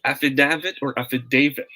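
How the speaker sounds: "affidavit" with DA as in "dad", then with DAY; short-A "affidavit", then long-A "affidavit"; two pronunciations contrasted. Shown as a demonstration. Teacher quizzes viewers on two sayings, contrasting affidavit pronunciations. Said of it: "Ano kaya ang sagot natin?".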